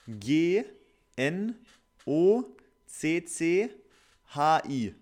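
letter by letter, each letter spaced; spelling it out. Shown as a demonstration. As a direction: spell G N O C C H I slowly. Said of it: "ich buchstabiere es dir ja jetzt mal".

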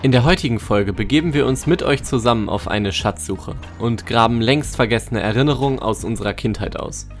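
scripted podcast presenter voice; episode intro read. Acted. Host invites listeners on a treasure hunt, scripted intro read.

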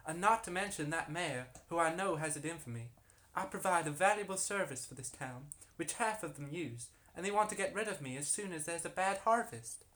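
put-on aggrieved harlot with an American accent. Harlot complaining about the town to investigators, put-on American accent. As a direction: plead her case in an assumed American accent. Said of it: "This is very American".

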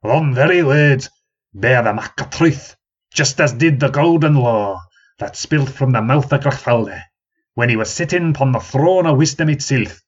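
put-on pompous old man in a country accent; old man's accent. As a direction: hold forth proudly in a broad country accent. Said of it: "that distinctive accent".

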